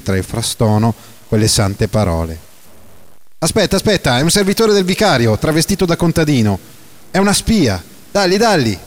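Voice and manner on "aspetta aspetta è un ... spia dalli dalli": much higher, frantic denunciation; accusing shout. Acted. A rioter crying out to the crowd that Renzo is a spy, shouting. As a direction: rouse the mob against the spy.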